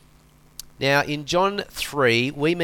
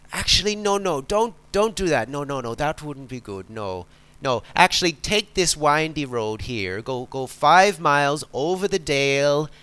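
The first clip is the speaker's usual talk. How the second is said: put-on Irish farmer accent. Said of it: "not very good at Irish accents".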